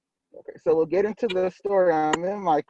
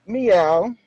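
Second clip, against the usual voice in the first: cat meow; 4 semitones higher, 6 dB louder than usual. A narrator's reading. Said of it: "Gary replied".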